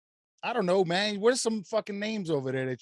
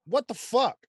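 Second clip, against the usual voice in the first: shocked; 8 semitones higher than usual. Acted. Danny reacts, scene read.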